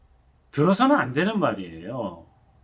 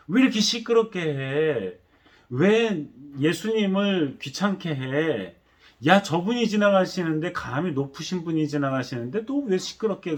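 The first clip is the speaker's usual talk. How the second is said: harsh scolding shout at a beggar; scolding crowd. Retold or imitated. Crowd scolding the blind beggar, a mock angry shout. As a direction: scold him to shut up. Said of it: "아예 꾸짖었어요".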